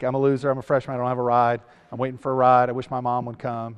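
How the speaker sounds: low mopey mumbling list; mock forlorn freshman. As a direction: imitate a freshman feeling like a loser. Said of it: "he kinda has the freshman look".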